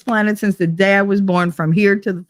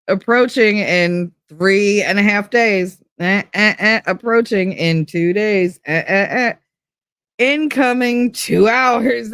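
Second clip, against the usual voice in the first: slow robotic warning countdown with beeps; mock alarm announcement. Universe warning her the person approaches, robotic slow countdown. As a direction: announce it like a siren system.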